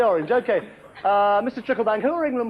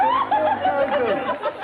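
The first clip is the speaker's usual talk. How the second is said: very high, slow squeaky repeat; drawn-out cartoon falsetto echo; squeaky mock echo; much slower than usual. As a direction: echo the name in a silly falsetto. Mocking echo of the answer.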